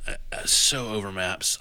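whispered, weary. Real, not acted. Host admitting to his co-host he is sick of maps, whispered. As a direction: breathe it out with no voice.

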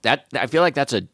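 talking while chewing; words round a bite of chocolate; mouth full. Real, not acted. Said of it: "Sorry, I'm chewing".

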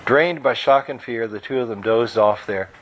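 steady storytelling read of his own book; novel read aloud. A narrator's reading. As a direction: read the chapter to the audience as a story. Author reads his novel aloud.

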